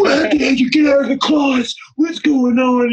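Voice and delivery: imitating the teacher shouting in the hallway; mock shout. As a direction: bark the question, half laughing. Teacher confronting him in hallway.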